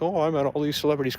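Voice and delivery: mocked dumb rant. Imitating the performer's rant about famous people, mock bragging. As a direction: rattle off his boast mockingly. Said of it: "went on his dumb rant".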